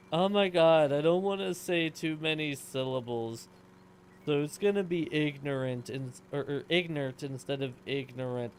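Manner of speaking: loud, whiny mock of a lazy speaker; loud mock complaint from a lazy talker. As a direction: ham up someone too lazy for syllables. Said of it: "through sheer human laziness".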